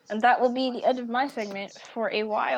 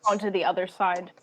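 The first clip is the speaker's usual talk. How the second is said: game master narration; 2 semitones lower than usual. Acted. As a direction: paint the scene for the players. GM narrates scene ending.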